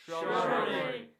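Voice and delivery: Shrubbery stretched out very slowly; slowly drawn out. Acted. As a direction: drag out Shrubbery, barely voiced. Repeating words for the class.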